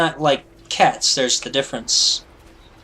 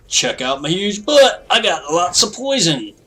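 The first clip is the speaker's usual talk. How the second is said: lightly high bragging spider; boastful little bug voice; 6 semitones higher than usual. Pretend. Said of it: "he'd just be like".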